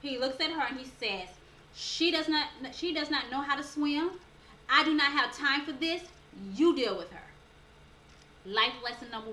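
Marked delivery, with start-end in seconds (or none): 1.7-7.3 frustrated instructor. Retold or imitated. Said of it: "and he is so frustrated".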